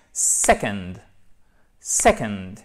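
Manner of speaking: SECOND with punched SEC, low falling "-ond"; isolated, emphatic "SEC-ond"; careful model pronunciation. Shown as a demonstration. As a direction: model "second" slowly, final D sounded. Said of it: "non, c'est second".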